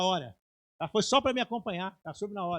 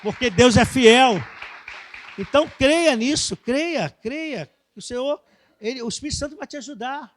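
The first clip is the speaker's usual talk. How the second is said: full-force preaching; 7 semitones higher, 10 dB louder than usual. Acted. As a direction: proclaim it to the whole church. Preacher exhorting the congregation.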